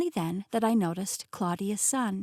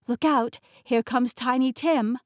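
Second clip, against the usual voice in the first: louder, higher heads-up call; raised voice, quick alert; calling a warning; 4 semitones higher, 5 dB louder than usual. Acted. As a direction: warn them about the charging dog. Warns of oncoming dog.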